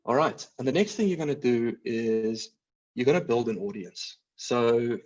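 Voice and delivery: speaking with a dry mouth; parched, sticky-mouthed talk. Real, not acted. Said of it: "dry mouth".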